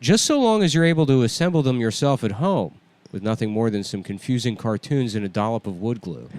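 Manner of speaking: understated host's joke delivery; demonstrated monologue read. Shown as a demonstration. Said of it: "I'll show you just this one".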